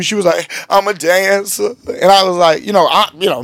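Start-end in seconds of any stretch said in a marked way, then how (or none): 0.7-1.7 lightly voiced woman, higher and drawn out; imitated woman's confession. Woman tells pastor her job, lightly imitated confession. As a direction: stretch it slowly in a raised voice.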